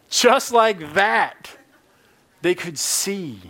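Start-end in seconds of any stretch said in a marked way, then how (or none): 0.1-1.6 very slow, drawn-out emphasis; dramatic slow. Shown as a demonstration. Preacher retelling the miracle, drawn out. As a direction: stretch each word for effect. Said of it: "redoing the line again".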